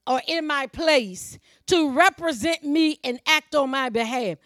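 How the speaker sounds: emphatic, measured scripture declamation; preaching. Acted. Preacher quoting scripture to the congregation, emphatic preaching. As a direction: preach each phrase out firmly.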